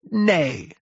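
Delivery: high, defiant cry; shouting curate. A narrator's reading. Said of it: "shouted the curate at the top of his voice".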